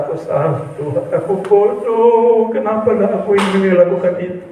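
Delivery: acted remorseful confession to God; imitating a penitent's regretful plea; remorseful prayer. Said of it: "Dia berkata".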